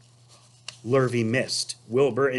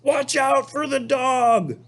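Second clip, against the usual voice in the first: high sheep warning; high alarmed sheep voice; sheep crying out; 14 semitones higher, 4 dB louder, slower than usual. Acted. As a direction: cry out about the dog, high. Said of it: "cried the sheep".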